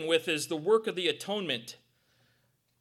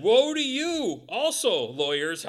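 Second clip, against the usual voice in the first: slow, loud scolding woe; slow stern rebuke, louder; 7 dB louder, slower than usual. Retold or imitated. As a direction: wag a finger and scold them. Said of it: "wagging that finger".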